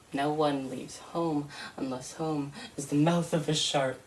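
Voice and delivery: measured, solemn poem reading; poem recital. Acted. Poet reciting to an audience, grave and measured. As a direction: lay the line down gravely for listeners.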